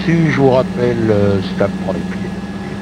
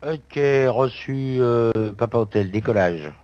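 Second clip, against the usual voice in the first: pilot cockpit headset. Real, not acted. Pilot radio reply over headset.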